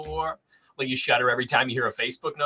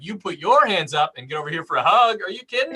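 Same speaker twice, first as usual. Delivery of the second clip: eager welcome; 4 semitones higher than usual. Retold or imitated. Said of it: "I'd be like".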